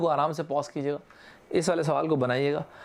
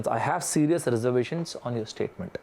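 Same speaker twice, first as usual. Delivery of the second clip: model sentence; 3 semitones lower, much slower than usual. Shown as a demonstration. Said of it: "अगर मुझे किसी चीज़ में doubt है".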